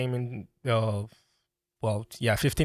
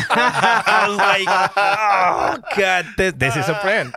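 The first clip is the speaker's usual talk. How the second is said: excited; 7 semitones higher, 6 dB louder, slower than usual. Retold or imitated. Excited retold realization about brand.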